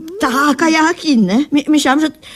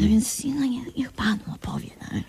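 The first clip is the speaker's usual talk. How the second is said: soft unvoiced whisper; 10 dB quieter than usual. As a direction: whisper it so Kazio can't hear. Urging secretly in front of Kazio. (szeptem, żeby Kazio nie słyszał)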